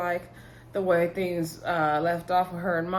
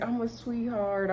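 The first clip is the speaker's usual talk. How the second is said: mock sweet reassurance; 4 semitones higher, 5 dB quieter than usual. Man soothing woman who felt scared.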